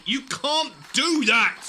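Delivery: loud, drawn-out disbelief; astonished exclamation. Acted. Student startled by plant communication, loud astonished outburst. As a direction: blurt it out, stunned.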